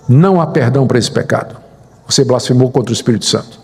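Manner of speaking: low, fast condemning voice; a low voice pronouncing judgment; accusing voice. Retold or imitated. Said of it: "veio a voz".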